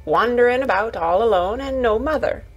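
lightly voiced Yorkshire lass passing on mother's advice; a hint of motherly urging, retold; earnest Yorkshire Martha. Martha quoting mother to Mary, lightly voiced earnest Yorkshire.

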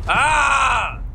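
long exasperated "aah"; real groan-yell of frustration; frustrated yell. Real, not acted. Frustrated yell while playing game.

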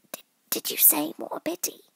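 high, stammering small voice; timid, squeaky questioning; nervous rabbit. A narrator's reading. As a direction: ask haltingly in a high voice. Nervous Rabbit asks Alice.

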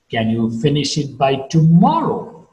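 "tomorrow" swoops up, then falls; unsure, leaning hard on "tomorrow"; doubtful question. Shown as a demonstration. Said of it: "I have a doubt. I'm not sure".

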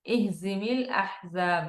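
"ইহজিমিল"-এর হ গলার মাঝখান থেকে, ধীরে; হা-কে কণ্ঠনালীর মধ্য থেকে স্পষ্ট করে উচ্চারণ করুন; throat ha. Shown as a demonstration. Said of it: "এটা কিন্তু হা কণ্ঠনালীর মধ্যখান থেকে". (ধীরে, গলার মাঝ থেকে হা বের করে)

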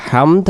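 হামদ with a closing দ; full final d. Shown as a demonstration. Teacher concluding how to say it, full-ending pronunciation. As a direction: end হামদ on the d, not on m. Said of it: "এরকম বলতে হবে".

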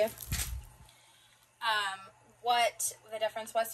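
usual speaking voice

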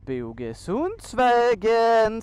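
loud, drawn-out announcement; dramatic reveal. Real, not acted. Rider unveiling the road to viewers, dramatic announcement. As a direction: announce it slow and big.

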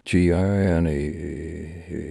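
slow, drawn-out mock wail of a name; crying out a name. Bloody Samson crying for Gina, slow mock wail. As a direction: stretch the name out like a half-hearted sob.

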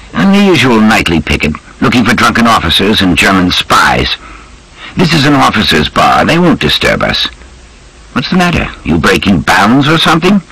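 lightly voiced breezy army major; British officer. Major dismissing the military police to Wolfe, lightly voiced officer.

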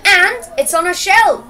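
lightly acted happy story line; happy explaining. A narrator's reading. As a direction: explain it with a touch of happiness. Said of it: "explained Joseph happily".

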